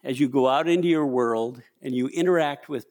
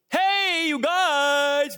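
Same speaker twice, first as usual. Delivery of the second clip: high, loud shout down the hall; calling out to the prisoners; 11 semitones higher, much slower than usual. Retold or imitated. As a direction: call out to the cell block. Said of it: "and I said in a loud voice".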